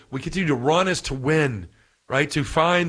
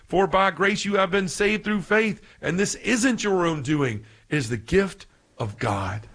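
reverent quote. Retold or imitated. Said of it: "Saint Paul is saying".

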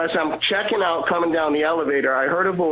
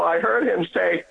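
ordinary talk

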